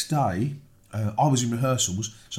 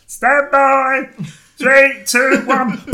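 loud, high crew call; shouted countdown; 11 dB louder, much slower than usual. Retold or imitated. Crew cueing the fight during his phone call, shouted countdown. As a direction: call the cue across a rehearsal room.

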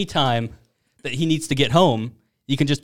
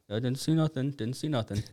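pretending not to see; 10 dB quieter than usual. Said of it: "tries to, like, ignore it".

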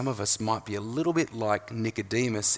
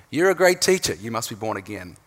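praise then blunt reply; 5 dB louder than usual. Retold or imitated. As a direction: lift the praise brightly, then drop flat for the reply. Contrasting Nicodemus's praise with Jesus's reply.

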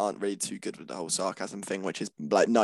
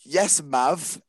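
mock fake British; 5 semitones higher than usual. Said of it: "she said".

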